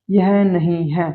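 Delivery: slow, careful यह नहीं है with नहीं said in full; slow full reading. Shown as a demonstration. Teacher reads the full phrase slowly for students. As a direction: read यह नहीं है word by word, slowly. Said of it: "तो कैसे पढ़ेंगे".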